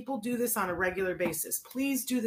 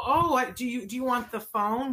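playing dumb; 4 semitones higher than usual. Shown as a demonstration. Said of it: "play possum and go".

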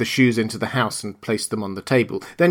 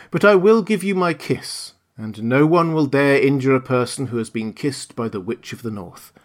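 put-on lightly raised, gentle old lady voice; kindly old witch; 3 semitones higher than usual. Witch of the North tells Dorothy she must stay, lightly voiced kindly old woman. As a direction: break the news kindly, like a grandmother. Witch gives her kiss.

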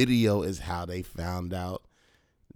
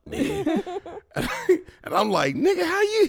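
laughing while quoting. Retold or imitated. Retold with laughter.

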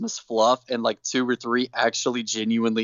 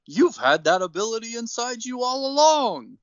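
Santa voice; 6 semitones higher than usual. Retold or imitated. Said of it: "And Santa says".

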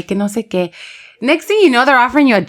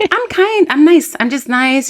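high-pitched self-mocking sweetness; acted innocent friendliness; sweetly nice; 6 semitones higher, slower than usual. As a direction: plead niceness in a raised, sweet voice. Voicing own niceness to strangers.

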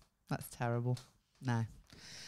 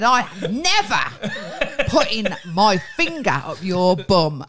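retold fuming vow; 8 dB louder, slower than usual. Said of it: "I said".

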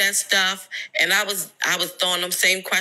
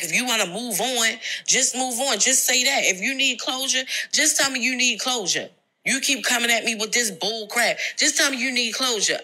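retold fussing; 5 semitones higher than usual. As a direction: mimic him snapping back defensively. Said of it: "talking over me and fussing".

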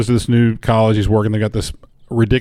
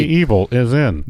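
robot voice. Pretend. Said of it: "that's how a computer would say it".

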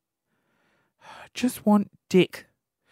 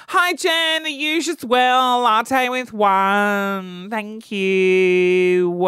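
chirpy greeting slowing to a drawn-out order; mock lady ordering; much slower than usual. Lady behind orders the same latte, drawn-out and chirpy. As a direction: play the next lady in line.

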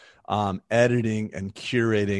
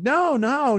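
retold denial; 4 dB louder than usual. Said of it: "I'm like".

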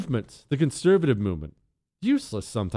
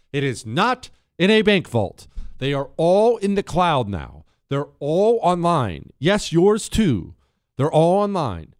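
slow insistent lines, every word pressed; stress it hard; 4 semitones higher, 3 dB louder than usual. Real, not acted. Host warns listeners their home titles are online, slow and insistent. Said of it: "I can't stress that enough".

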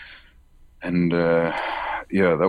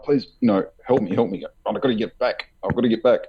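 higher, urgent retold plea; panicked pleading; 4 semitones higher, faster than usual. Pleading with the giant figures, mock panicked. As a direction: beg for help, half acted panic. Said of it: "You know, freaking out".

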